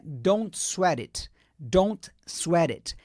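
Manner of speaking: "don't sweat it" slow, with "sweat it" linked. Shown as a demonstration. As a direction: join "sweat" and "it" into one flow. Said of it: "vai emendar o sweat com it". ("sweat it" emendado, bem devagar)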